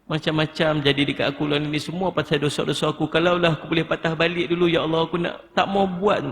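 pleading prayer, climbing in pitch; acted plea for forgiveness; demonstrated pleading. Shown as a demonstration. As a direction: confide regret to God, rising as it goes. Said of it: "Merayu, merintih dengan Allah".

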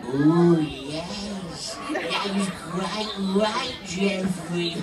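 lightly voiced puppet, laughing; puppet Sippy voice. Puppet answers Geoffrey in a lightly put-on voice. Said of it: "Sippy and George are gonna do".

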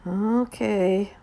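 soft, low, drawn-out okay; mumbled. Acted. Ruthie answering Mama after a bad day, mumbled. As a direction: mumble it as if nothing's fine. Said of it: "mumbled Ruthie".

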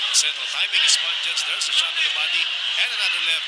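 rising excitement as the punches land; excited play-by-play. Real, not acted. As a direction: call the flurry fast and high. Live call of a knockout flurry.

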